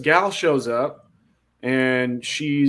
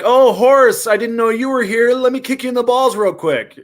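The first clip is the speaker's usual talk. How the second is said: mock perky woman; 8 semitones higher, 4 dB louder than usual. Woman greeting Horace and offering a kick, mock high perky voice. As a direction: imitate her in a raised, higher voice.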